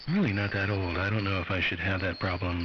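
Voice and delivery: ordinary delivery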